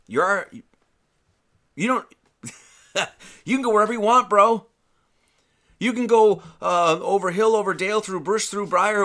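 laughing, high, easygoing Jesus voice, fast at the start; a chill, amused Jesus telling a friend anything goes; casual Jesus. Retold or imitated. Preacher voices Jesus reassuring the scribe, high and laid-back. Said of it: "And Jesus is like".

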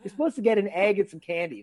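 high, indignant mock rant; outraged disbelief. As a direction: squeal it like a cheated kid. Outraged kid retelling Easter gifts.

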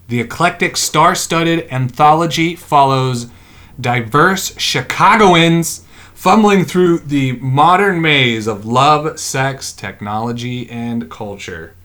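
slow, deliberate promo read; blurb reading. Acted. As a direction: read it out like a series synopsis, drawing out each phrase. Reads out the show's blurb.

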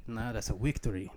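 victory with a German W sound, wictory; German accent. Pretend. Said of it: "That's how the Germans say it".

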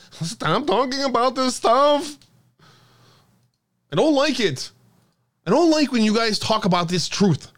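hammed-up whiny threat to call the FBI; mock Mike Rothschild. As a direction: mimic a soy boy begging them to stop. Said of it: "I do my best Mike Rothschild impression".

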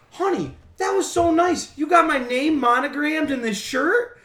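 high, slow attempted Maine accent; imitated Maine accent. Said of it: "What accent are you doing?".

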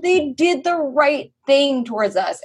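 high, slow emotional gush; mock choked-up sincerity; overcome fan. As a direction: stretch it out like a moved fan. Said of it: "I was getting chills".

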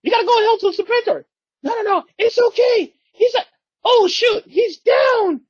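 very high, loud squealing commander; panics, then shrieks the retreat; shrill villain panic. Retold or imitated. Cobra Commander shrieking retreat at his troops. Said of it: "And she's, like, fighting back".

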